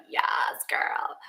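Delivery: put-on breathy whispered valley girl aside; a light hint of a Valley girl, almost whispered. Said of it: "I'll talk like a valley girl".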